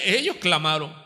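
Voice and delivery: ordinary delivery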